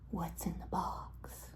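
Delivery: slow, low-key, softened question; hushed question. Retold or imitated. Friends teasing Brad about his takeaway box, hushed question. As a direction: ask it slowly under your voice.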